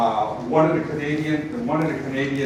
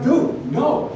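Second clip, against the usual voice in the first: exasperated refusal; 8 semitones higher than usual. Retold or imitated. Speaker refusing a pushy event host, exasperated. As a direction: shut him down with a laugh.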